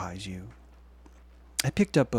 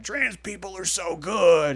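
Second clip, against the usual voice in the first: slow, higher put-on voice; drawn-out mock cheer; mock voice of supporters; 6 semitones higher, slower than usual. Mocking the other half online, slow put-on. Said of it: "the other half are like".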